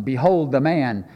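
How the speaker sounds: slow, majestic proclamation. Shown as a demonstration. Showing how the translation sounds, majestic. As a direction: draw out BEHOLD grandly, mock-majestic. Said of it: "you know, majestic or something".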